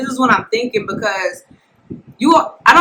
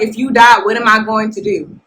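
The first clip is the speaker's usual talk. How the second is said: raised voice. Retold or imitated. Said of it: "but my voice was raised".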